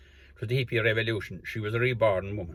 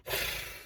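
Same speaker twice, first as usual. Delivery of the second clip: nose sigh; 5 dB quieter than usual. Retold or imitated. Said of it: "he'd breathe down through his nose".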